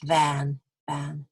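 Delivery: crisp RP "a" in "van"; RP a sound. Shown as a demonstration. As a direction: say "van" in classic RP, mouth corners slightly apart. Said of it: "But in my accent".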